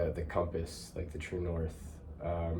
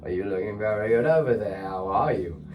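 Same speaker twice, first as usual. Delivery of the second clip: put-on playful swaggering British accent, higher and louder; cheeky mock-British greeting, rising in pitch; 3 semitones higher, 4 dB louder than usual. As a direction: pop off in a made-up British accent with swag. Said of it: "pop off in a British accent".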